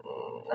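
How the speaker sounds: quiet, low-key "mm"; soft hum, imitating his hesitation; imitated hesitant hum. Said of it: "and he went".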